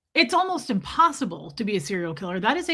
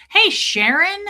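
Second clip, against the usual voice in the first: excited greeting; 8 semitones higher, 7 dB louder, slower than usual. Real, not acted. Greeting a viewer.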